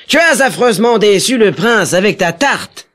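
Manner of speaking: a touch of a furious duke; angry cry. A narrator's reading. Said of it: "cria-t-il".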